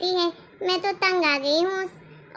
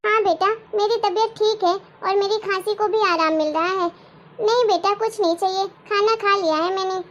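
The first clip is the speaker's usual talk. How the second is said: a hint of a meek old mother; old grandmother. Grandmother reassuring her son about her health, lightly voiced.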